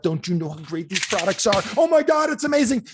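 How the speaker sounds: high, loud gushing hype to the team; mock pep-talk excitement, pitch shooting up; fired up. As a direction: build into over-the-top amazement. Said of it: "you get them fired up".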